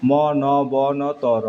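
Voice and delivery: ম, ন, ব, ন, ত, র spoken as separate pieces with pauses; syllable split. Shown as a demonstration. Teacher breaks মনন্তর into parts for students, slowly. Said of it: "তোমার মনন্তর".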